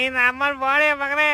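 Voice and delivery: hammed-up whiny crying curse, slow; a slow tearful half-sob of a curse; mock crying. Beggar denied money whines tearfully at the man, mock crying. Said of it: "ಯಾಕೆ ಅಳ್ತಾ ಇದ್ಯಾ".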